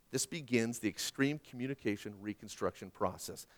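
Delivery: ordinary talk, nothing marked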